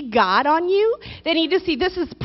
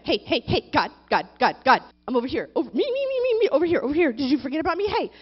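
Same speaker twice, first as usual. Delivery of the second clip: put-on whiny toddler; faster than usual. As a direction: nag like a little kid wanting attention. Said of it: "regressing into the three-year-old mentality".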